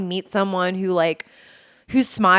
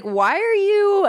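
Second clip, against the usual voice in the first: puzzled question; 12 semitones higher, slower than usual. Retold or imitated. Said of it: "she'll be like".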